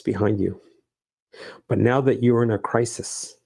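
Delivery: calm, measured answer with long pauses; heavenly voice. Retold or imitated. God comforts a man in crisis, lightly voiced heavenly reply. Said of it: "A heavenly voice responds".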